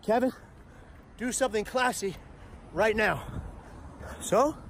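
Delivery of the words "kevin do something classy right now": inner voice. Retold or imitated. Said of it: "But my brain reacts".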